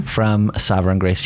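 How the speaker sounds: low, booming announcer voice. Shown as a demonstration. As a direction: announce the church name like a big introduction. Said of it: "try to do my announcer voice with that".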